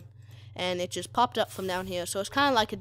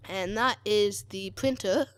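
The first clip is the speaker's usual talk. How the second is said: voice crack. Real, not acted. Player wraps up the printer demonstration, voice cracking. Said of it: "so a voice crack".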